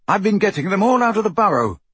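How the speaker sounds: put-on lifted, lively young man's dialogue; Bill, urgent and relieved. A narrator's reading. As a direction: explain it urgently to the family. Voices Bill explaining.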